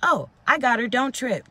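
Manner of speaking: mock manager. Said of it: "The manager comes over".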